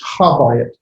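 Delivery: habayit with the b doubled. Shown as a demonstration. Teacher showing class the doubled sound. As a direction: hold the b in habayit. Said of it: "double sound to it".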